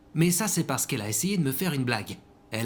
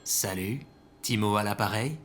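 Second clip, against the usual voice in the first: a lower, disguised phone voice; put-on voice; 5 semitones lower than usual. Timo answers his ex's call in a lower disguised voice. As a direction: fake a deeper voice to sound composed. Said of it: "je connais ta vraie voix".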